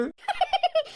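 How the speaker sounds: a high amused laugh; a high, falling peal of laughter. Acted. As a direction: burst out laughing at him. Wife laughs at husband's complaint.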